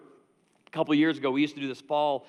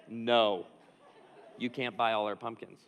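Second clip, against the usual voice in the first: lightly acted proud report, dropping lower; self-satisfied employee role-play; 6 semitones lower than usual. Johnny reporting his refusal to boss, mock proud. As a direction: tell the boss, lightly hamming up the pride. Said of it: "I'm just gonna role play this".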